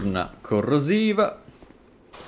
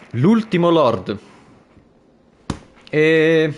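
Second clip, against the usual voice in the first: loud announce; 4 semitones higher, 6 dB louder, slower than usual. Real, not acted. Boss name announced.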